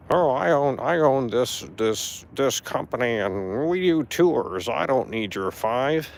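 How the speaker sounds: slow, drawn-out imitation of a big shot; mock self-important boasting. Mimicking the performer who refused a tip, mock pompous. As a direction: stretch out his brag to mock it. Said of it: "pretend like he's somebody".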